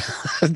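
short laugh. Real, not acted.

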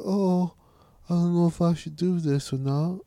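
mock British accent, softly dithering; shitty British accent. Mocking the show's second persona for his friend, shitty British accent. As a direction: put on a hammed British accent. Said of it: "talking in the shitty British accent".

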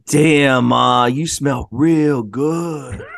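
slow, drawn-out smooth come-on; mock celebrity flirt; a rapper's come-on. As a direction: lay it on thick and slow. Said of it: "he didn't say it like that".

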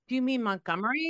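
a hint of a helpful kid correcting; gentle correction. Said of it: "Kosha was like".

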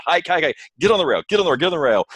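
high urgent yelling of crew orders; yelling orders at the crew to hike out; retold yell. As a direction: bark it like a racer ordering crew to the rail. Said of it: "my first thing I yelled was".

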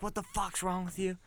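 imitating furious driver. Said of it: "she's still losing her shit".

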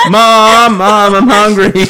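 put-on high whiny child calling mom; whiny kid voice. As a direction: whine like a hungry kid. Kids calling from outside van.

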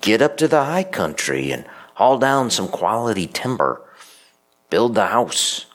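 rally them like a prophet; rousing command. Retold or imitated. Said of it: "stirred a fire under the Jews".

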